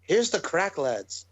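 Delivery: weak attempt at an Irish accent; half-successful Irish impression; poor Irish accent. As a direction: try an Irish lilt, not quite managing it. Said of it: "I can't do the Irish accent like you".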